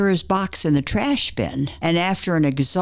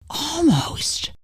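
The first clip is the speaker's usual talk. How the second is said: much higher, startled question; surprised; 10 semitones higher than usual. Retold or imitated. Wife reacting to husband's hint that she was found out, surprised. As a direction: caught off guard by one word.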